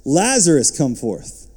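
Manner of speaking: a moderately loud call on "Lazarus"; loud cry. Acted. Jesus calling dead Lazarus by name, a mild loud cry. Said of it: "he cried with a loud voice".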